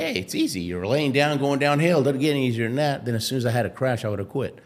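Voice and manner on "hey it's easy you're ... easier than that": candy-coated pitch. Retold or imitated. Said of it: "if he had a candy coated it".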